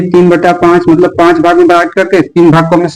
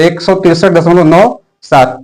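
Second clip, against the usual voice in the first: slow model reading; slower than usual. Shown as a demonstration. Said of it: "अगर हिंदी में पढ़ते हैं तो".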